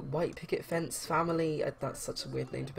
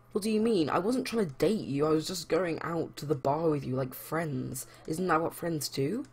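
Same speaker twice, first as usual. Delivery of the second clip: yelling. Acted. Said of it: "He's gonna keep yelling at him".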